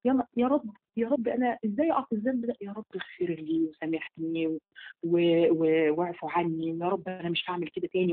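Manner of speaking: distressed plea. Retold or imitated. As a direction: act out a panicked repentant plea, voice up high. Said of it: "إن أنت تقولي".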